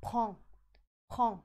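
"prends" said as "pran", no d or s sound; silent d and s. Shown as a demonstration. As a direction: drop the final d and s in "prends". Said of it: "ตัว d กับตัว s เราไม่ออกเสียงเลย". ("prends" อ่านว่า ปรอง ไม่ออกเสียง d และ s)

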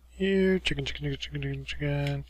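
sing-song chicken call. Pretend. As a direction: call them like a farmer. Calling chickens in game.

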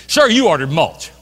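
loud, drawn-out insistence. Retold or imitated. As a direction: imitate a clerk slowly insisting at full voice. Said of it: "raise your voice".

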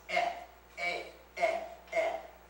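E said as a long "ay"; long vowel demo. Shown as a demonstration. Pastor teaching the letter eta, E sounded as a long "ay". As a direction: sound out E as "ay", each one separate. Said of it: "that is always pronounced".

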